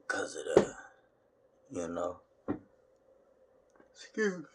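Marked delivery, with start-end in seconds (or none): 3.9-4.4 breathy whispered aside; whispered excuse me. Real, not acted. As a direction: slip in an apology under the breath. Aside after a burp.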